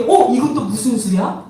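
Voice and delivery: amused, puzzled reaction with a laugh; playful astonishment; mock surprise. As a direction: act out being lightly taken aback. Acts out astonished onlookers.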